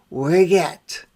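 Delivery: "we're yet" said as one quick falling hello; "we're yet" run together, local style; New Orleans greeting. Shown as a demonstration. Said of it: "what we like to say when we want to tell a friend hello".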